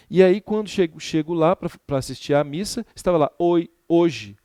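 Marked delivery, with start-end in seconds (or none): 3.4-4.4 Italian greeting. Retold or imitated. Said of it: "hoje sem H".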